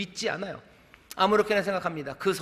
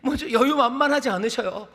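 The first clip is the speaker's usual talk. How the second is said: raised, high-pitched sermon delivery; impassioned preaching; 8 semitones higher, 5 dB louder than usual. Real, not acted. Preacher urging the congregation to hear the cry, impassioned. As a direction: press the point home like a fervent preacher.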